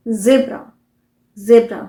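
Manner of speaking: ज़ेब्रा opened with "zee": ZEE-bra; American pronunciation. Shown as a demonstration. Teacher explaining the zee letter name, American pronunciation. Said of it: "American pronunciation है".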